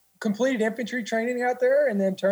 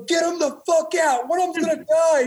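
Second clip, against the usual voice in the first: higher, shouted angry order; 8 semitones higher, 3 dB louder than usual. Retold or imitated. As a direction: bark it like a furious senior. Senior orders recruits out.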